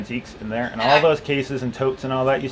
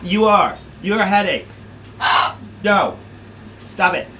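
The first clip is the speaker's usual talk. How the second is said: teasing the dog; 7 semitones higher than usual. Real, not acted. Owner teasing her pacing dog Gemma, high playful scold. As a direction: tease her like a naughty puppy, pitched way up.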